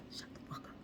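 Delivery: breathy hushed threat, almost no voice. Retold or imitated. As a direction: hiss it low so only he hears. Robber hushing the friend.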